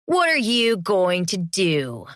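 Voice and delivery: slow, lightly mocking lilt; sing-song. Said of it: "Vic asked in a sing-song voice".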